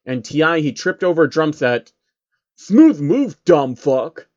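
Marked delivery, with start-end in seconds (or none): 2.6-4.3 hammed-up mock; mocking jeer. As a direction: jeer at the guy who tripped. Mocking a clumsy fall.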